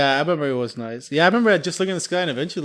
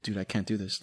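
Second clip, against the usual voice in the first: mild mock despair; 7 semitones lower, 14 dB quieter than usual. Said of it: "He's like".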